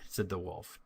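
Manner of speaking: ordinary delivery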